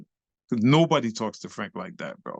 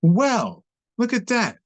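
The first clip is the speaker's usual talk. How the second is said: higher, lightly acted approval; impressed onlooker; 5 semitones higher than usual. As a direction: exclaim as an impressed elder dancer. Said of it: "And he was like".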